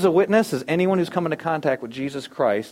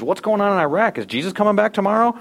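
higher-pitched, curious coworker voice; questioning coworker; 6 semitones higher than usual. Acted. Coworker in next cubicle asking about end times, higher questioning voice. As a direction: lightly act a coworker's rising questions. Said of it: "your coworker in the cubicle".

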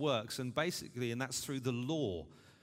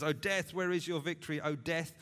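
raised, louder taunt at death; higher-pitched scriptural taunt; 4 semitones higher, 4 dB louder than usual. Acted. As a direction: throw it out as a challenge to a defeated enemy. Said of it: "He's now using taunting language".

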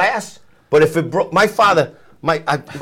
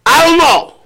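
higher, louder shrug of a punchline; joke punchline; 11 semitones higher, 5 dB louder than usual. Acted. Italian guy with watermelons answering buddy, loud shrug. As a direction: land the punchline with a big helpless shrug.

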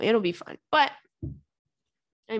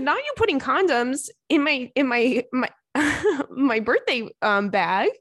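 teasing laughing; 4 semitones higher than usual. Retold or imitated. Teasing friend about condoms.

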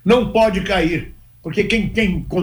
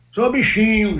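mock Bahian accent; 5 semitones higher, slower than usual. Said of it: "paulista chegar na Bahia e querer falar baiano".

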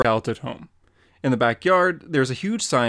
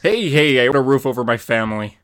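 defensive outburst; 7 dB louder than usual. Acted. Father defends himself to Wally.

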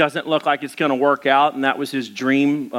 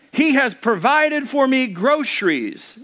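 put-on old lady rejoicing; 9 semitones higher than usual. A narrator's reading. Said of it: "and she cried out".

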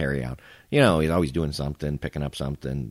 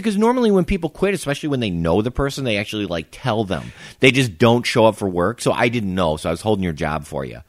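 sarcastic; 2 semitones higher than usual. Retold or imitated. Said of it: "I'm being sarcastic and busting him out".

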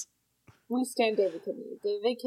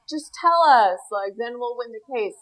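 insistent plea; 5 dB louder than usual. Retold or imitated. Lawyer in the retold film pressing Elle for the alibi, insistent plea. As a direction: push it out as an urgent request. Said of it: "when that guy is like".

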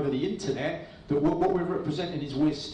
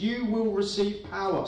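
higher pitch, leaning on "You"; stress on You; 6 semitones higher than usual. Shown as a demonstration. Preacher reads the verse word by word, stressing "You". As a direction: emphasise "You" at the start, raised pitch. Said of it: "just gonna emphasise each word".

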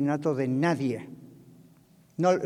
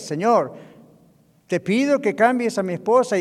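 higher and louder, bossing God around; mock demanding prayer; 4 semitones higher, 5 dB louder than usual. Pastor mocks a spouse praying for change, in a mock demanding prayer. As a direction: pray like you're giving God orders. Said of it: "No le dé ideas".

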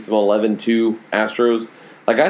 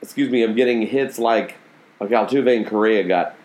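hiccups. Real, not acted. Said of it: "Why am I hiccuping?".

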